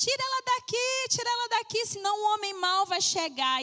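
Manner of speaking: put-on high scream like a little boy. Retelling how a boy screamed when the speaker reached the house, imitating a boy screaming. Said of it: "o menino começou a gritar".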